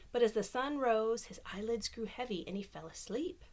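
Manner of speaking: lively storybook reading voice; reading to children. Acted. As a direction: read it like bedtime story time. Reads picture book aloud.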